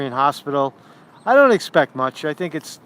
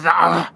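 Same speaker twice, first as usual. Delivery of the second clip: mock attack cry. Imitates the scorpion's sting attack.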